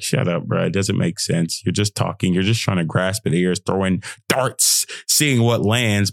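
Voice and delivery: a hint of a sneering inner critic; lightly voiced dismissive inner voice; negative inner voice. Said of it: "that negative voice".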